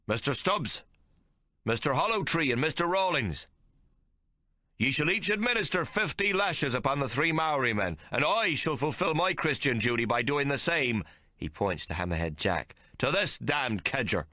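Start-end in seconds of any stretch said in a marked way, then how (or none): 0.0-11.0 a zealot captain condemning Hawke; thundering captain. A narrator's reading. Captain orders the lashing. 13.0-14.2 high, slow, contemptuous; scornful captain. A narrator's reading. Captain scorns Hammerhead Jack.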